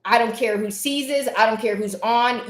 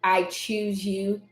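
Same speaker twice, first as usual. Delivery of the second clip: tender self-affirmation. Acted. Woman tells herself in the mirror that she's loved, tenderly. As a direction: say it gently, like a private promise.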